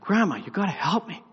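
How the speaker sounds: put-on boy pleading with silent grandma, mild whine. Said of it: "I'm like".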